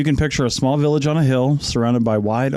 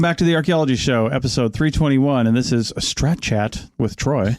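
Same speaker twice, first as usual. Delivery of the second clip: late-night radio host. Acted. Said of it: "Why are you saying it like, like a radio show from the nineties".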